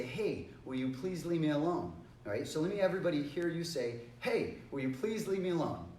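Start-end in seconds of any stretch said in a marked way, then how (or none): 0.0-1.9 polite, friendly request to be left alone; nice request. Shown as a demonstration. Student asks a bothersome friend to stop, nicely. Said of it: "we wanna say it nicely". 4.2-5.9 politely asking, without force; nice request. Shown as a demonstration. Teacher models asking a bothering friend to stop, nicely. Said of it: "we wanna say it nicely".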